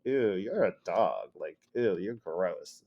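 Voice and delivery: low-key ew of disdain; disgusted put-down. Shown as a demonstration. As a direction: sound mildly grossed out by them.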